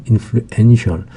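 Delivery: "influential" with the stress on EN; stress shifted to EN. Shown as a demonstration. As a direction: say "influential" as in-flu-EN-tial. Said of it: "강세 위치가 N에 있고요".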